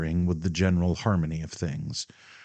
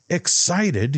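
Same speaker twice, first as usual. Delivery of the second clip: much higher, loud indignant outburst; stormed; 12 semitones higher, 4 dB louder than usual. A narrator's reading. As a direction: throw the word back at her furiously. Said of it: "he stormed".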